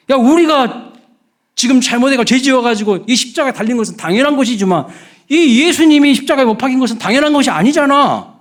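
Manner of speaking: high-pitched indignant scolding; acted rebuke. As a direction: turn on your companion and tell him off. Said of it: "갑자기 이 사람이 돌변했어요".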